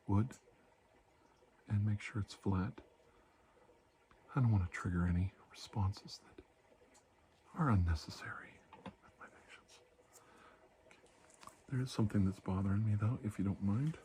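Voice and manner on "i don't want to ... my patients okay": whisper. Acted. Doctor explaining the wooden tool to the patient, whisper. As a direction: explain it in a hush.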